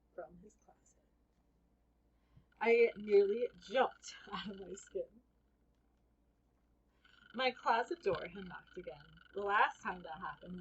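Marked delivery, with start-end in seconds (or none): 2.6-5.1 startled half-laugh; laughing through it. A narrator's reading. Narrator laughing at being startled, slow and loud. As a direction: laugh while telling the fright.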